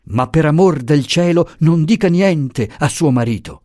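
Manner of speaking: high, urgent begging; anxious plea. Acted. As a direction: plead for secrecy. Professor begging secrecy.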